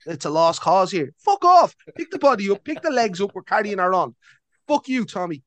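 Joel's imagined version telling Tommy off, mock angry. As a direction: bark orders at Tommy, mock furious. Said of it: "trying to convince him, like".

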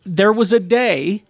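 slow, lightly voiced old man. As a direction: drag it out like a grumpy old-timer. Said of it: "I sound like a fucking old man".

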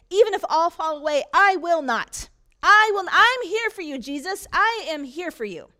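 high, loud pledge; loud declaring. Acted. Peter pledging to Jesus, loud and high. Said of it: "Peter declared".

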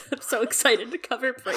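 high, laughing half-cry; tearful laughter. Real, not acted. Host excited to cover Bran, real laughing-crying. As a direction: squeak it out through laughter and tears.

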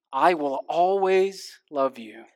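slow, whispered song lyric. Retold or imitated. Pastor quoting a singer's love song in a slow whisper. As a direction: hush the famous line slowly. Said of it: "Dolly wrote it and Whitney sang it".

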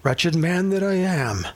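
mock-solemn pulpit delivery; pulpit recitation. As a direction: recite it like a stiff church reading, not felt. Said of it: "in the pulpit and we're like".

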